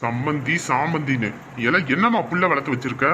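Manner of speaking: irritated phone scolding; cross in-law telling someone off; angry. Acted. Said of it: "கோவப்படாதீங்க, கோவப்படாம பொறுமையா பேசுங்க".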